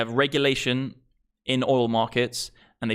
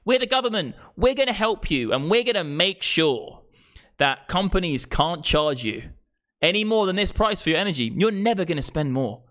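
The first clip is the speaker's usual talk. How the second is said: much higher, sugary mock-official promise; mock government; 4 semitones higher than usual. Streamer mocking government promises, high and syrupy. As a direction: parody a smug government soothing the public. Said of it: "And it's like".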